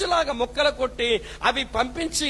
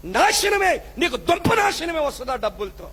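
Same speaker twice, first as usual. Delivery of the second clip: pronouncing doom; 2 semitones higher than usual. Acted. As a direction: cry the word out as a curse.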